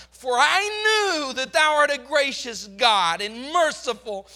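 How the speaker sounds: Jonah's bitter complaint, swelling to a loud crying outburst; frustrated prayer. Acted. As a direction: accuse God through clenched frustration. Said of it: "Listen to the frustration of his prayer".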